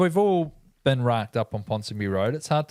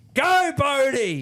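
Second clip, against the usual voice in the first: put-on very high, wasted, shrieking drunken scream; 11 semitones higher than usual. Recalling a drunk woman on a flight to Invers, retelling her screaming. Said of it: "she just kept screaming out".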